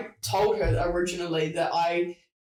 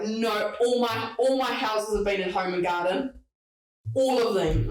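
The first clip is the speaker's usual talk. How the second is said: imitating a cocky client, pitched up a touch; stubborn, cocky; 3 semitones higher than usual. Client bragging about her houses, stubborn and cocky. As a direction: boast stubbornly, as if refusing to budge. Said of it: "really stubborn, cocky".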